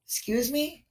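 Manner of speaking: high, incredulous "excuse me"; indignant disbelief. Real, not acted. Reacting to the officer's words, high shocked disbelief. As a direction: sound appalled at what you just heard.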